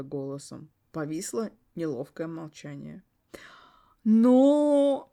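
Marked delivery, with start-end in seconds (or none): 4.0-5.1 whisper. Acted. Whispered drawn-out hesitation.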